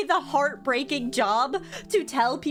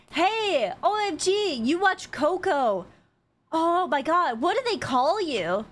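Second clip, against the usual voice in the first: imitated gushing fans; 5 semitones higher than usual. Voices fans who failed to recognize her.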